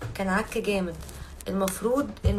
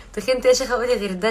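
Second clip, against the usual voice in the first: louder, indignant comeback; indignant retort; 2 semitones higher, 7 dB louder, faster than usual. Real, not acted. Loudly mock-offended at a fan who says she got fat. Denying she gained weight.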